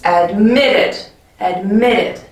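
"Admitted, admitted" with MIT punched each time; stress on second syllable. Shown as a demonstration. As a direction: hit MIT in "Admitted", first rising, then falling. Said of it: "Emphasis is on the second syllable".

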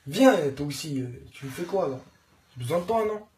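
calling out. Real, not acted. Calling her to help.

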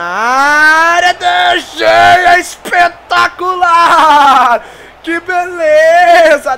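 slow, loud, high praise; excited save call. Real, not acted. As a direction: shout the save with awe. Big save called live.

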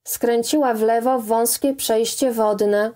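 ordinary delivery, nothing marked

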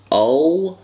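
whispered laughing oh my god; breathless laugh. Real, not acted. Overwhelmed by the food, whispered laughing awe.

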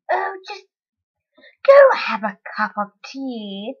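lightly voiced refined pony with swooping pitch; a hint of a fussy lady, lilting along; Rarity. Pony reassuring her darling guest, lightly affected lady voice. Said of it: "enjoy my impression of Rarity".

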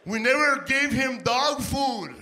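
loud, high comic yell; loud laughing rant; shouting punchline. Real, not acted. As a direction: belt the punchline out.

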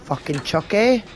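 imitating a friend, "Chucky" ending in a rising "ay"; Eve's pronunciation. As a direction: say "Chucky" as "chuck-AY", lifted at the end. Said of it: "Say it like Eve says it".

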